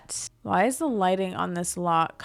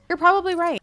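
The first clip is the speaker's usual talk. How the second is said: higher and louder, conceding with a dramatic flourish; emphatic high agreement; 10 semitones higher, 5 dB louder, much faster than usual. Real, not acted. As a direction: give in loudly, like a playful defeated whine. Repeats agreeing with imagined viewers.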